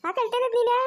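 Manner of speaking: high cooing question. Real, not acted. Cooing at a crying baby. (ಮಗುವಿನೊಂದಿಗೆ ಎತ್ತರದ ಮುದ್ದು ಮಾತು)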